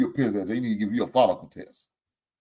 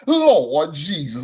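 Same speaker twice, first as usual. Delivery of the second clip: slow, loud drawn-out exclamation; exasperated plea in the style of a rapper; slow loud Lord Jesus in exasperation; a rapper's catchphrase; 4 semitones higher, 4 dB louder, much slower than usual. Retold or imitated. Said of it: "In the words of my man, Boosie".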